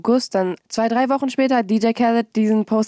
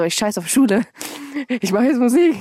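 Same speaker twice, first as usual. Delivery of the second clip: defiant outburst; 4 semitones higher than usual. Retold or imitated. Teen telling everyone she quits school, defiant outburst. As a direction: toss it off like a rebellious teen. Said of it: "Ich so".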